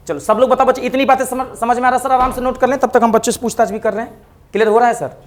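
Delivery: loud classroom call. Real, not acted.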